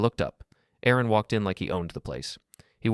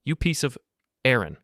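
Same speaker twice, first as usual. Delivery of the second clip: furious yell, louder; exploding shout; 6 semitones higher, 4 dB louder than usual. A narrator's reading. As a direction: explode with rage. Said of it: "A man's voice exploded into my ear".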